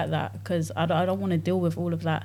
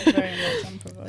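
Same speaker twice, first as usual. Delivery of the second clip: mock posh high voice; 14 semitones higher than usual. Teasing echo of furthermore.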